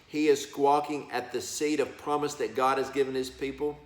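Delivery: usual speaking voice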